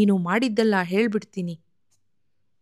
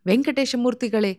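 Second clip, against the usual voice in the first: higher-pitched mild call from outside; 4 semitones higher than usual. Acted. Jois calling from the street door, a light raised call. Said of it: "ಎಂದು ಕೂಗಿದುದು".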